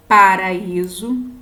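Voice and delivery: paraíso, pa-ra-Í-so, slow and clear; syllable-by-syllable paraíso. Shown as a demonstration. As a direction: draw out paraíso, leaning on í. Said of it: "Por exemplo".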